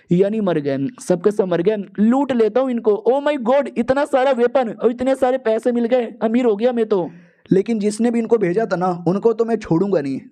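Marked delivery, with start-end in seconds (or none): none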